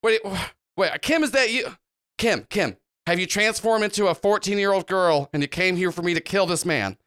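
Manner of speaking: lightly voiced startled mechanic; astonished recognition. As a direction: Tool Boy suddenly recognises Kim. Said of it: "Tool Boy just goes".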